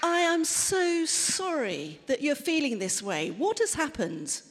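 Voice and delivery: gentle, caring apology; a touch of tender concern; sympathetic. Acted. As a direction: reach out to someone upset. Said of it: "respond to you by saying".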